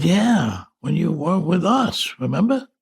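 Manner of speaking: insistent reminding. Retold or imitated. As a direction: remind him as if it's obvious. Relatives insist on a shared memory.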